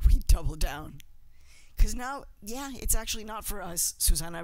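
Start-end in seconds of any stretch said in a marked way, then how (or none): 0.1-1.0 louder repeat. Real, not acted. Repeats the call to action louder.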